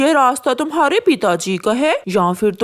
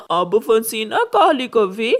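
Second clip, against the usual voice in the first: chuckle, then a low gloating taunt; gloating laugh; 5 semitones lower than usual. Acted. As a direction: laugh at the trapped crow. Pigeon traps crow in tree. (हँसते हुए ताना)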